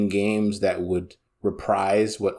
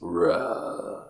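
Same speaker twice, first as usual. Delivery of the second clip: short low dragon growl; dragon roar; 5 semitones lower, 5 dB quieter than usual. Acted. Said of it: "That's my dragon impression".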